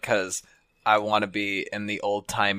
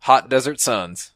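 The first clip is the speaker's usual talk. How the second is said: easygoing cowboy storyteller. Pretend. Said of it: "Do a cowboy thing".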